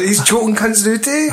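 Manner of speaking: gleeful and rising; excited. Real, not acted. Friend hyped about Luke choking guards, high excited. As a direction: voice jumps high with glee.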